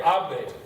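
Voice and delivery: "Hable" with the first of two syllables stressed; stress on second-to-last syllable. Shown as a demonstration. Teacher explaining the stress rule, "Hable" stressed on its first syllable. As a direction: lean on the "Ha" of "Hable". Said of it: "It's the second to last syllable".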